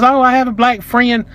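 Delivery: high, slow mimicry of the woman; mocking excuse. Woman excusing herself to offended customer, mocking imitation. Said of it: "Typical bullshit".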